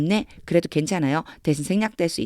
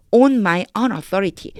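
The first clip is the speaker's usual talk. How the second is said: slow reading; 3 semitones higher, 4 dB louder, much slower than usual. Shown as a demonstration. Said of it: "다시 해볼게요".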